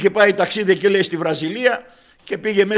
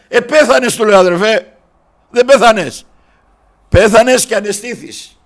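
loud, raised preaching voice; retold triumphant declaration; 3 semitones higher, 8 dB louder than usual. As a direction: declare it forcefully to a brother. Preacher retells his triumphant reply.

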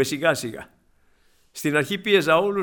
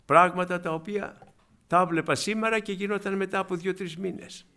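normal talking voice

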